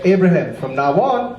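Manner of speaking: hint of a manly deity; masculine God. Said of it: "God has a very masculine voice".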